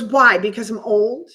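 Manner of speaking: mock snap. Older woman challenging the offer of help, mock snappish. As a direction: imitate a snappy comeback, punching the opening question. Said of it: "she snaps at me".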